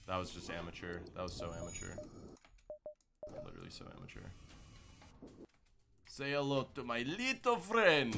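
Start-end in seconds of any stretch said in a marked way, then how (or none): 6.0-8.1 lightly voiced Scarface line, slow and raised; movie quote voice. Gamer firing at enemies, slow hammed movie quote. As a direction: ham up the movie line a little.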